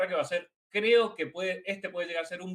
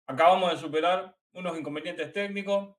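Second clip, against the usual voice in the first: talking through a mouthful; mouth full. Real, not acted. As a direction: speak while chewing food. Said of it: "Estoy hablando con la boca llena".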